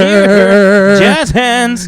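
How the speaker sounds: hammed-up theater flourish; mock theater kid. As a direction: tease him with a showy flourish.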